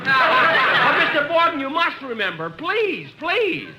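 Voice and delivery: pleading. Acted. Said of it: "Stop squeezing my arm".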